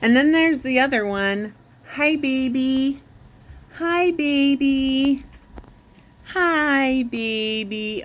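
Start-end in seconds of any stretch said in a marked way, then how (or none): 2.0-8.0 high, slow cooing greeting. Real, not acted. Greeting the other cat.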